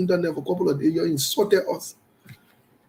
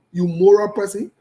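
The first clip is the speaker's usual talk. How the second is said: repeated jibe, louder with a rising sneer; louder mocking repeat; 6 dB louder than usual. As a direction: throw the question back harder, mocking. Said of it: "writing on Facebook and say".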